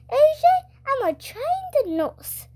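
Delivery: she's sure she knows best; lightly voiced confident school nurse; nurse voice, insistent. A narrator's reading.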